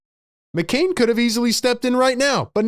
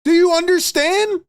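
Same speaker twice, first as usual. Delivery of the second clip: higher, louder exasperated demand; angry; 9 semitones higher, 3 dB louder than usual. Real, not acted. Streamer demanding chat understand, exasperated. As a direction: press chat hard for an answer. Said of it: "Sorry for the crash out".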